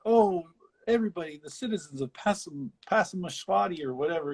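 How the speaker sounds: lightly hammed-up showman; mock showman greeting. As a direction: address the town like a huckster. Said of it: "he's like".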